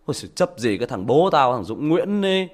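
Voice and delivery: a hint of a scornful son, slowed; lightly voiced scornful son; mocking teen son. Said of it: "nó bảo".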